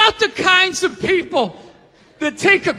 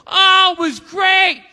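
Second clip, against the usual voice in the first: dopey cruise-goer; 2 semitones higher, slower than usual. Retold or imitated. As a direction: drag it out like a lazy vacationer. Voicing lazy cruise-goer.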